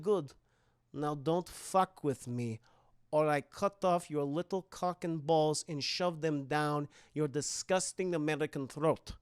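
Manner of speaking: quiet low menace; menacing girl villain. Acted. Esther's final threat.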